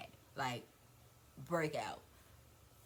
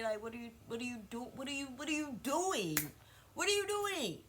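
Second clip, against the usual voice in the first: climbing much higher and faster, in disbelief; incredulous; 7 semitones higher, 3 dB louder than usual. Real, not acted. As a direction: build the question into a high, incredulous peak. Demanding what the mother is doing.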